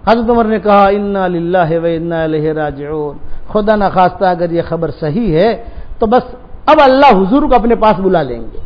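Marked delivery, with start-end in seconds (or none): 0.9-5.6 low, slow, hushed grief; grave, stunned prayer; stricken. Retold or imitated. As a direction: let the shock sink in slowly. Umar reacts to terrible news.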